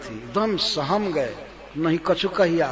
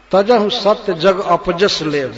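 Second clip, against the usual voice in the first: slow verse recital; 6 dB louder, slower than usual. Acted.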